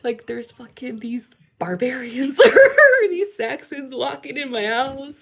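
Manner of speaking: high, loud voice breaking into laughter; laughing disbelief. Retold or imitated. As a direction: laugh through the absurdity, voice climbing. Laughs retelling barbarians in house.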